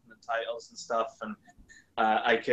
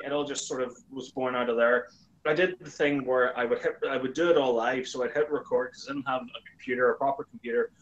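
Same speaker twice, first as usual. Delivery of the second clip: normal talking voice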